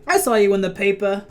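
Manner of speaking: hammed-up, bad Boston accent; terrible Boston accent. Villain doctor to the young hero, terrible Boston accent. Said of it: "totally terrible Boston accent".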